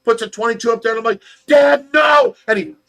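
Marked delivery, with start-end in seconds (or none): 1.5-2.4 loud, high retold protest; desperate shouted plea; horrified shout. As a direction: cry out to stop Dad from shooting. Child begging dad not to shoot.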